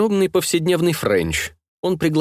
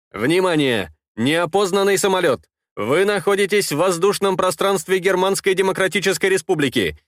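radio controller voice; 4 semitones higher than usual. Acted.

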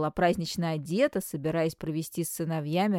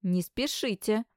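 stern; 4 semitones higher than usual. Acted. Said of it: "строго сказала мама".

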